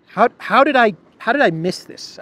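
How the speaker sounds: high, loud mock astonishment; hammed-up shock at his own mistake; mock disbelief. Pundit mocking his own reporting, in hammed-up disbelief. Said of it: "I've been reporting this all freaking wrong".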